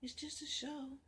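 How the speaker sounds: whispered, hushed repeat of "just a show". Acted. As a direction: say it again under your breath.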